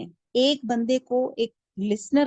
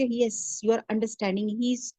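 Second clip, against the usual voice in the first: soothing agreement; much slower than usual. Shown as a demonstration. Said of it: "ایسے اس کو، ان کو دو کہ".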